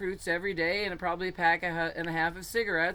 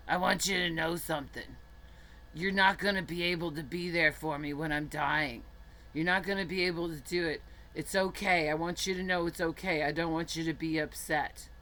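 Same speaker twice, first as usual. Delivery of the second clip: imitating old friend. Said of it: "And he talked like this".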